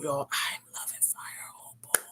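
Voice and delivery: real whisper, breathy and hushed. Real, not acted. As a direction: gush about the highlighter in a whisper. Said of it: "I'm trying to whisper".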